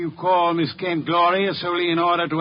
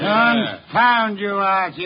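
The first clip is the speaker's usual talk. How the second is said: louder, slow exasperated rebuke; irritated outburst; 3 semitones higher, 4 dB louder, much slower than usual. Acted. Detective rebukes his assistant for bringing the crooks, exasperated. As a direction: snap at him, slowly and crossly.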